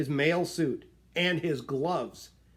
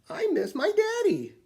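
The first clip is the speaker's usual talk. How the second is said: shouted. A narrator's reading. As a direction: shout it out like a child who misses her father. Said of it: "shouted Minuet".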